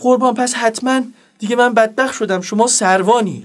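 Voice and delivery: mildly hammed-up panic; anxious pleading. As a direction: play a nervous underling guessing at rank. Driver pleads with disguised officer.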